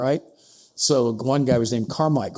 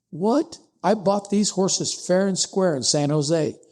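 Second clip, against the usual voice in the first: high, startled protest; indignant surprise; 6 semitones higher than usual. Retold or imitated. Ewing Young protesting to the chief factor, startled and indignant. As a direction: react as if wrongly accused.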